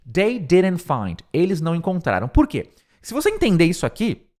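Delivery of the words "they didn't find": slow model sentence. Shown as a demonstration. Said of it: "O que você tem que entender".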